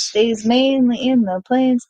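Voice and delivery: slow, stretched-out film quote; slow recitation. Acted. Correcting partner's My Fair Lady quote, slow recitation. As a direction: draw out the line as you recite. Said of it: "My Fair Lady".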